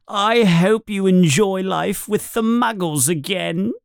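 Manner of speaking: high, sneering bully voice; gloating taunt. Acted. Bully taunting Harry about the Muggles, gloating. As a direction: gloat over him.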